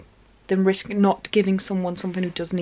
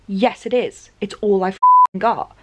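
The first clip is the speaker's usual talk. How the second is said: exasperated retort, louder on the last words; mock irritation; 6 dB louder, slower than usual. Friend answers man begging for more money, mock irritation. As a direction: imitate a friend's fed-up comeback, stretching the end. Acted quarrel, Andrew snapping back.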